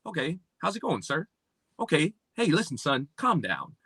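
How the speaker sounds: measured, polite imitation of a well-spoken man; lightly voiced proper speaker; mimicking proper talk. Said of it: "and then I would mimic it".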